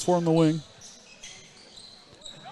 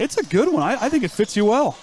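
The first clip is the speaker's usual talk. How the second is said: teasing sing-song; 5 semitones higher than usual. Real, not acted. Teasing about the nickname.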